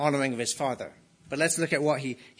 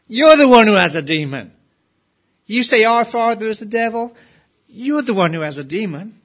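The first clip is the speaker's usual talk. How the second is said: loud, higher, indignant shouting; angry outburst; 6 semitones higher, 8 dB louder than usual. Retold or imitated. Crowd shouting back at the preacher's subject, furious and loud. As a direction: hurl the accusation back in a fury. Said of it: "it's like they're saying".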